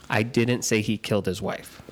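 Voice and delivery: "didn't" stressed, the rest plain. Shown as a demonstration. Reading the test sentence to the group, stress on "didn't". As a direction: set up the sentence, weight on "didn't". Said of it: "So the sentence is gonna say".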